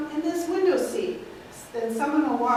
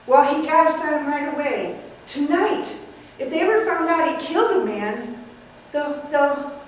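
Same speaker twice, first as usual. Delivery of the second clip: louder, pressing nephew; urgent; 5 dB louder than usual. Acted. Mortimer presses the aunts to act, urgent and louder. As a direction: push hard, it must be tonight. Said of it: "playing the nephew, Mortimer".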